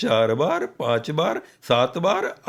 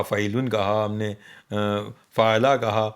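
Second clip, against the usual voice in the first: فعیلن and مفاعیلن spelled out slowly, beat by beat; slow metre demo; 6 semitones lower than usual. Shown as a demonstration. Teacher slowly sounds out prosody feet for the listener. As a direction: lay out each metre foot slowly. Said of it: "جیسے ہم نے کچھ کہا".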